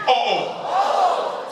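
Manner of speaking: very high-pitched surprised "oh, oh"; demonstrated Haitian cry of dismay; Haitian surprise. Shown as a demonstration. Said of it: "when Haitian people are surprised, here's what they say".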